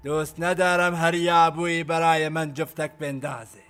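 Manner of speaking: commander announcing his verdict to all; public loud pronouncement. Acted. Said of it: "تکش با صدای بلند گفت". (اعلام آمرانه با صدای بلند)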